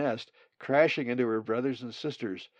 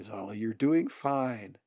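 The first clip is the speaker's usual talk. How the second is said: reassuring; slower than usual. Acted. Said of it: "Colin reassured her".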